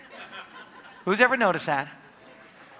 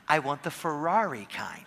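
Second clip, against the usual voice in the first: whispered punchline; 4 semitones lower, 4 dB quieter than usual. Retold or imitated. Teasing punchline to wife.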